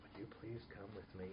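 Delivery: very soft, low, gentle ask; quiet calm request. Retold or imitated. Police officer to a brawler in a bar, quiet and calm. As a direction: ask it calmly, almost hushed. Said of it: "Just spoke quietly, spoke calmly".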